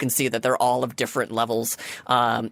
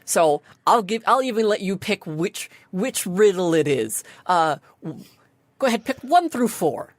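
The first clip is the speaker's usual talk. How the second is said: lightly voiced bubbly gatekeeper; perky sphinx greeter; 4 semitones higher than usual. Sphinx letting players pick a riddle, lightly perky. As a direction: offer the choice with light, chirpy encouragement. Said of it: "goes back to a perky self".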